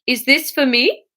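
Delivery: a shaky Swedish chef voice; mock Swedish accent; attempted Swedish. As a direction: reach for Swedish, half-hearted. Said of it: "Is that a Swedish accent".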